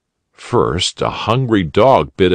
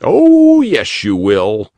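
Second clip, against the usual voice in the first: more kindly; 5 semitones higher, 5 dB louder, slower than usual. A narrator's reading. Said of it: "still more kindly".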